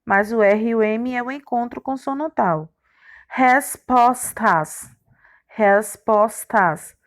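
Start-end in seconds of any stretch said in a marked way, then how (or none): 3.3-4.9 very slow, each syllable apart. Shown as a demonstration. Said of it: "Cada consoante ficou numa sílaba". 5.5-6.9 very slow, each syllable apart. Shown as a demonstration. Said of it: "Cada consoante ficou numa sílaba".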